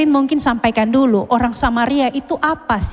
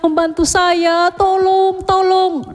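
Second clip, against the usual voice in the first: higher, pleading prayer, slowing on the first plea; weak desperate prayer; 3 semitones higher, slower than usual. Acted. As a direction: pray weakly for help while hurt. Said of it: "Dia hanya bilang". (doa memelas dengan suara lemah)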